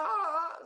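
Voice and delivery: high, drawn-out "ah" scream; retold scream. Preacher imitating the possessed neighbour, high scream. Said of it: "teriak begitu, saudara".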